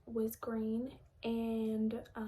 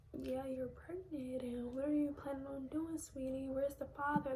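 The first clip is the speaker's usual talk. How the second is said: lightly voiced kindly lady, higher pitched; gentle clinic lady; 3 semitones higher than usual. Retelling the lady at the appointment asking questions, gently imitated. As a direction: imitate a caring clinic worker, a touch higher.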